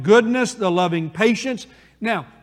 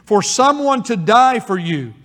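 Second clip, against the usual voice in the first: rising preaching emphasis; 5 dB louder, slower than usual. Acted. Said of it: "let's go back to this great gospel truth".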